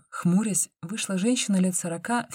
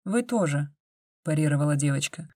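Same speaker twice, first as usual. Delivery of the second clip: ordinary delivery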